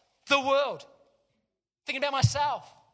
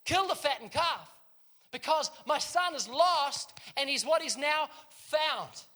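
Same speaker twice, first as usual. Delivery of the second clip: higher, louder call across the yard, last words drawn out slowly; joyful yell; 5 semitones higher, 4 dB louder, slower than usual. Retold or imitated. Father calling servants to kill the calf, joyful yell. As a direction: shout the good news to the servants. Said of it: "And then he yells out".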